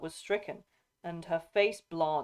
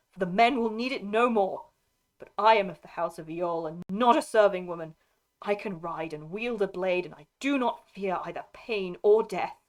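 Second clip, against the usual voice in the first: proud shield maiden, forceful and louder; defiant Eowyn; 2 semitones higher, 5 dB louder than usual. Acted. Lady refusing to stay in the house, defiant. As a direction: play a noblewoman's indignant defiance. Voices Eowyn defying Aragorn.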